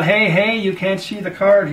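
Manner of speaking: the punters' indignant shout; mock yell. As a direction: call out the cheat across the table. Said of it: "And they'd yell".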